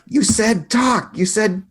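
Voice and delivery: high, slow accusing cry; mock tearful yelling. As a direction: wail it as a betrayed accusation. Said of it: "she's just yelling".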